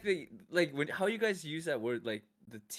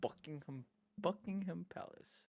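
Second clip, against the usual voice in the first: put-on soft, slow, careful English accent; English accent attempt; 5 semitones higher, 10 dB quieter than usual. American repeating London landmarks after friend, quiet English accent. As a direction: timidly copy a London accent, slowly.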